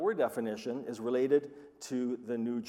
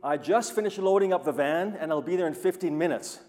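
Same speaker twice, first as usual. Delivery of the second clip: retold phone call; 5 semitones higher, 8 dB louder than usual. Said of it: "he phones me and says".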